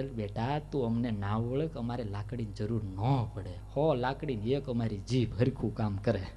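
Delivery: calm mother. Acted. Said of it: "Yashoda કે".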